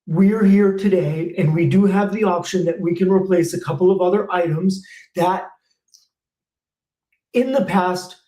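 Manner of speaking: brisk, polite service-call pitch to a homeowner; quick, courteous technician offering options; sample customer pitch. Shown as a demonstration. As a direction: talk to Mrs Smith like a friendly tech. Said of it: "You're gonna be saving them money".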